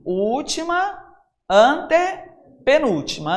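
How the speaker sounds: high, drawn-out count with gaps. Shown as a demonstration. Teacher shows the class the counting order, slow counting. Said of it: "Então, é assim".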